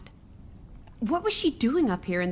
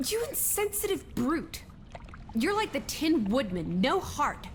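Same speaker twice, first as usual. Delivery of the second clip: high-pitched scolding outburst; indignant rebuke; 4 semitones higher than usual. Acted. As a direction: scold him, offended. Alice scolds Edward.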